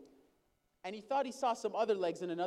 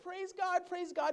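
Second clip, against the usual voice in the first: much higher, joyful retold praise; elated praise, pitched way up; celebrating; 12 semitones higher, 3 dB louder, slower than usual. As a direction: cry out in thanks like a healed man. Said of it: "He was celebrating".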